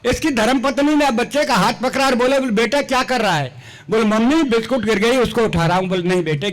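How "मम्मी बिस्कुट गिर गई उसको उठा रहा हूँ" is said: put-on child's voice.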